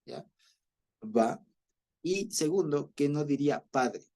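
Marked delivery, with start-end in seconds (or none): 1.0-1.4 "Abba" said ab-BÁ, final syllable stressed; stress on second A. Shown as a demonstration. Teacher shows the correct accent, "Abba" stressed as ab-BÁ. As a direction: land on the last A of "Abba". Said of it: "sino en la segunda".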